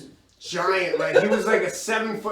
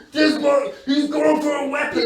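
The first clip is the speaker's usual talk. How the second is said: higher and louder, alarmed; alarmed guard; 8 semitones higher, 4 dB louder than usual. Retold or imitated. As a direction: call out the threat like a guard. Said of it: "he's like".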